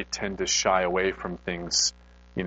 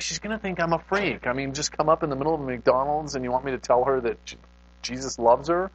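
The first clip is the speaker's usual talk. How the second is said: incredulous protest; 6 semitones higher than usual. Retold or imitated. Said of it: "And I'm like".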